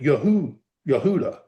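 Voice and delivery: "Yehu, Yehuda" with an oo in the middle; "Yehuda" pronounced ye-HOO-da, showing the U; U sound. Shown as a demonstration. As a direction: break out "Yehu", then say "Yehuda" whole. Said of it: "Vav U sound in it".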